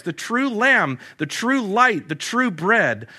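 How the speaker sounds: rising, ringing litany of "the true"; a preacher's climbing, insistent recital; preaching at full force. Acted. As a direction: build it like a sermon refrain.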